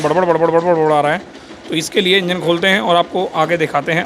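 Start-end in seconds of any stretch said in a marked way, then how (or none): 0.0-0.9 rapid repeated putt-putt imitation; imitated engine noise. Mechanic showing viewers how the engine sounds, imitated engine noise. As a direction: imitate a rattling motorbike engine. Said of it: "इसके engine का sound".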